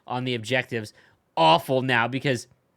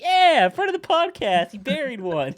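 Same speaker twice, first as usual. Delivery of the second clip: fan cheer; 11 semitones higher, slower than usual. Retold or imitated. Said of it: "and now I'm like".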